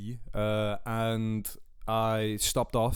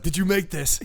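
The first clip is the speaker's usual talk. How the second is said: higher, louder, hammed-up amazement; mock delight; 7 semitones higher, 5 dB louder than usual. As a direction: laugh through an over-the-top delighted question. Retold question, redone with delight.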